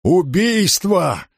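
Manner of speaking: high, drawn-out cry of murder; frantic scream. A narrator's reading. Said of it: "истошный крик".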